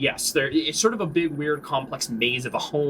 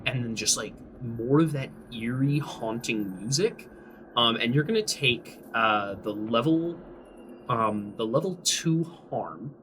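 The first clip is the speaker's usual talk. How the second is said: slow, hushed descriptive narration; game master scene setting; 3 semitones lower, 3 dB quieter than usual. A narrator's reading. Game master leads a player into the basement, hushed narration. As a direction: draw players downward, softly and with pauses.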